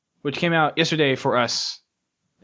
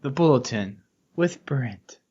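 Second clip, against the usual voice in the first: announcer voice; slower than usual. Pretend. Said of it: "In his sexy announcer voice".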